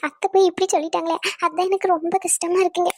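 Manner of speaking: mildly tearful, wounded complaint; put-on crying. Wife complains to husband about her mother-in-law, mock tearful. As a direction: whimper a little for sympathy. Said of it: "நீ அழுவாத".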